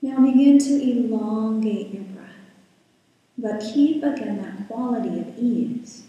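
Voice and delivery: calm, unhurried guiding voice with long pauses; guided meditation. Real, not acted. Yoga teacher settling the class into breath and body, guided meditation. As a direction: ease listeners into stillness, leaving space between phrases.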